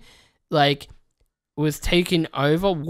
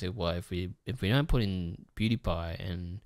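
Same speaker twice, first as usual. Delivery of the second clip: mock nervous reasoning; 7 semitones lower, 4 dB quieter than usual. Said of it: "their thought process was".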